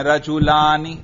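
رجلانی with the laa held long; pronounced alif. Shown as a demonstration. Teacher showing the alif is pronounced, held long. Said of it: "الف پر ہم تلفظ کر رہے ہیں".

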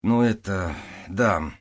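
ordinary talk, nothing marked

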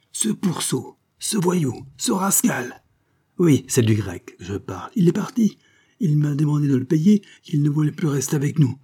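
high, loud, frantic character voice; agitated Wackstein. Acted. Wackstein rants to Knobbles about the Greek, high and frantic. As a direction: rant it out in a panicky rage.

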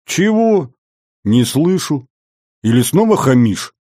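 high-pitched, rough demand to repeat; gruffly challenging the boy's manners; rude challenge. A narrator's reading. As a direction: snap back as if not hearing. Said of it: "грубо переспросил".

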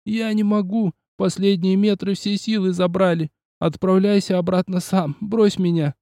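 put-on a worn-out kid with nothing left; exhausted young boy.

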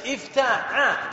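افتاع drawn out slowly with an "a" after ع; open vowel on ayn. Shown as a demonstration. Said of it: "تفتح العين".

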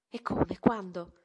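domande improvvise a voce molto alta; allarmata. A narrator's reading. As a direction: scatta sorpresa e spaventata. Madre sorpresa e allarmata. (madre colta di sorpresa, grida allarmata)

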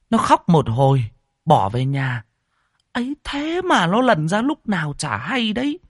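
rising, lightly voiced agitated neighbour; retelling shock. Neighbour explains the fall to the old woman, agitated. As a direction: tell it fast, growing upset.

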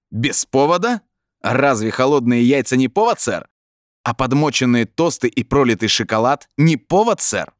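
indignant. A narrator's reading. Brin disputes the lieutenant's charge, indignant. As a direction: argue back with rising indignation.

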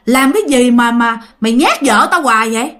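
indignant challenge, climbing to a high pitch; retold angry scolding. Father challenges ghost for scaring his wife, scolding angrily. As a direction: build from exasperated muttered start to mock tirade. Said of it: "Ba tức quá cái ba mới chửi".

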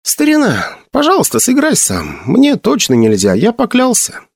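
high, pleading plea. Acted. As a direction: beg him anxiously. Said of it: "умоляюще посмотрел".

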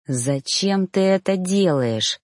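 slow, worn-out question; man in pain, slow and worn out; weary, pained. Acted. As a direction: drag it out, exhausted. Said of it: "вымученно произнёс я".

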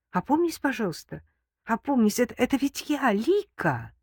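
frightened, halting plea; pleading. A narrator's reading. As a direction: beg them to come to their senses. Terrified woman begs captor.

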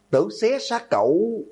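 high-pitched threatening outcry; enraged cry. A narrator's reading. Student lunging at the accused girl, enraged cry. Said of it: "Dương Vũ gào lên".

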